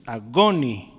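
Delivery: "agonizomai" in two parts, "agoNI... zomai"; teaching "agonizomai" with a stressed I and a break; accent on the I. Shown as a demonstration. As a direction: lean on the NI of "agonizomai", then pause before "zomai". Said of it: "el acento está en la I".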